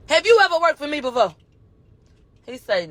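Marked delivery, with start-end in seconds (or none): 0.1-1.3 quick, lightly imitated courtroom questioning; imitating defense attorney. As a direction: lightly mimic a defense lawyer's brisk question. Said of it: "he talking like this".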